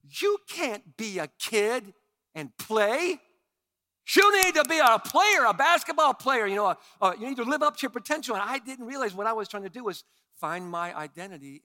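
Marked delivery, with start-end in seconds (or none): 0.0-8.3 loud, high, hammering lecture; pounding coach dad. Retold or imitated. Father pounding demands into his son, loud hammering voice. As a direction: drive each word into the kid. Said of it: "pound the truth into his son".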